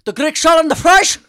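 loud, high barked question; impatient yell. Retold or imitated. Imitating the Greek place guy yelling the order back. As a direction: yell it like you want them off the phone. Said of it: "He'd yell every fucking time".

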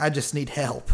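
halting, hesitant meek character; lightly voiced timid plea; meek Sarah. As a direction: feel your way through it with pauses. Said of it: "kinda meekly".

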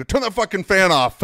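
loud, high retold demand; re-enacted angry shout. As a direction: shout it in pain at whoever did it, as retold. Acted yell about ceiling fan.

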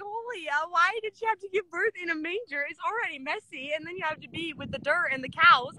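high-pitched, incredulous outburst; appalled disbelief. Acted. Woman reacting to Mary giving birth in a manger, appalled disbelief. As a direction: react aghast, pitched well up.

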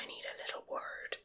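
very soft, unvoiced whisper; a hushed, private aside; whispering in his ear. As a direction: whisper it discreetly into someone's ear. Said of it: "I'm kinda whispering in his ear".

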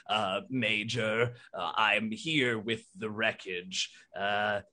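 a hint of a careful robot butler; Bertrand voice. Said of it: "Bertrand comes on and says".

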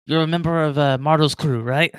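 a touch of a booming dwarf ribbing the newcomer; hearty dwarf. Acted. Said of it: "the dwarf".

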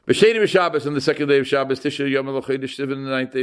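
steady, level recitation; intoned on one even note; ceremonial document reading. Acted. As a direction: read it out like a formal contract. Reads out the marriage contract.

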